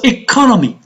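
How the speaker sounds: "economy" stressed on "co"; stress on second syllable. Shown as a demonstration. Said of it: "On the second syllable".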